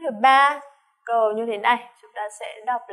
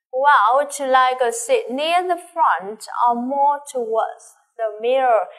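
reading a dialogue part; 2 semitones higher, 4 dB louder, slower than usual. Acted. Teacher reads dialogue line.

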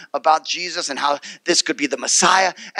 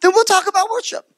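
gentle Jesus, agreeing; 10 semitones higher than usual. Retold or imitated. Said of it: "It's like".

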